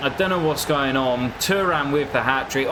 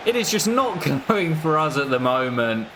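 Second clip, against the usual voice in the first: rueful laugh; 4 semitones higher than usual. Real, not acted. Chance missed, laughs in despair.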